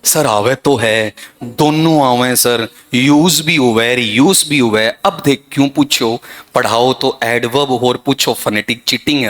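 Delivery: mock student whine, stretching the words; complaining student. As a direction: imitate a pupil's dragging regional grumble. Teacher voices complaining students in dialect.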